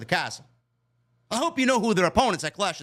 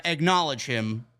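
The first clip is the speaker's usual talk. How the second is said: quoting Reigns; 5 semitones lower than usual. Retold or imitated. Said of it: "say to South Carolina".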